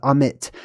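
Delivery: Amit said as "ah-MIT"; tentative pronunciation. Shown as a demonstration. Host unsure of the name before spelling it, tentative pronunciation. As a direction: open "ah" then short "mit" in Amit. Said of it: "not sure how to pronounce that one".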